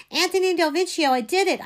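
high, loud urgent blurt. A narrator's reading. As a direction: blurt the accusation out. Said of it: "I blurted".

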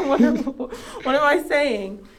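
muffled behind a mask; through fencing mask. Real, not acted. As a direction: speak through a face mask. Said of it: "I have a mask on".

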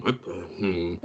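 softly imitated wondering "hmm"; puzzled hum. Game master as the disoriented man looking at things, puzzled hum. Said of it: "looking at things and going".

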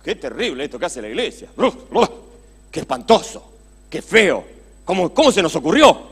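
gasping "uf, uf" at what the church did, growing outraged; mock dismay. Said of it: "nos paremos delante del espejo y digamos".

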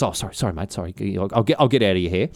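lightly acted, meek backing off; sheepish apology. Earl apologising to the guard who sent him away, sheepish.

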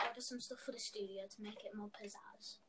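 unvoiced whisper to herself. Real, not acted. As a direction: whisper it under your breath. Aside while Luna listens.

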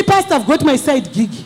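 a hint of a woman making excuses; mock married woman. Pastor mimicking a married woman confessing to him, lightly voiced. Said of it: "A woman comes to me".

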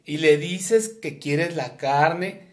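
imitating mom. Imitating mom giving errand.

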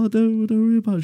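very high, light woman's voice; kindly lady. Retold or imitated. Customer brushing off thanks, high and kindly. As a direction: wave it off like a sweet lady. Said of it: "And she was like".

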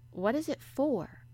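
high, slow, puzzled question; curious. A narrator's reading. Young mistress puzzles over the rope, curious. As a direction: ask slowly with mild curiosity. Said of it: "she asked curiously".

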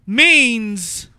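slow, loud drawn-out Walken; Christopher Walken impression. Doing Walken's Lilo and Stitch line for friends, loud and slow. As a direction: lean on each word with long pauses like Walken. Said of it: "Thank you, Mister Walken".

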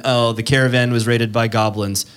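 dull, flat plain report; boring delivery. Shown as a demonstration. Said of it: "what's more boring than".

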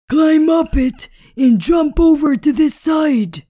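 high urgent friend. Acted. Friend urging escape.

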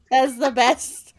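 unvoiced whisper through laughter; whispered aside while laughing. Real, not acted. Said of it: "whisper heard".

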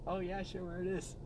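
high, lightly voiced young woman; man doing a woman's voice. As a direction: answer in a high girly voice. Voicing the woman's reply.

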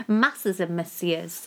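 slow, savoured alliteration; slow playful drawl. Pretend. Husband savours the silly alliteration, slow and playful. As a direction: roll the words out slowly for fun.

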